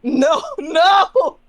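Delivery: loud, high cry of refusal; alarmed protest. Acted. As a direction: shout to stop it at once. Player protests the entity's move.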